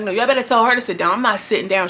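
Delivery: mildly heated retort, quick at first; imitated pissed off. Retelling her refusing to sit down, mildly pissed off. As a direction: refuse like someone pissed off, retold. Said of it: "She was pissed off about that".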